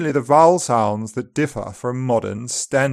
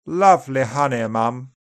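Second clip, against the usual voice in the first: upper RP accent. Shown as a demonstration. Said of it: "more open".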